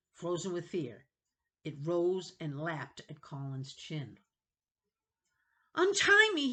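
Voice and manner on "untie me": high, loud, panicked plea; panicked begging. Acted. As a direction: beg in terror. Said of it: "he begged, his voice high and panicked".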